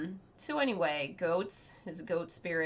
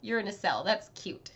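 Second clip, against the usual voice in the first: mocking Midna; 3 semitones higher, 4 dB louder than usual. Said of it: "she's like".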